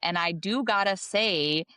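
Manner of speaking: light newscaster Southern drawl; a hint of a Southern reporter; mock Southern accent. Co-host hamming up a Southern accent for the show. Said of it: "I definitely am now doing a Southern accent".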